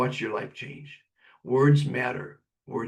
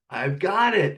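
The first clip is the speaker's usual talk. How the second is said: mock yell back; 6 semitones higher, 5 dB louder than usual. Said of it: "he would yell back the bad news".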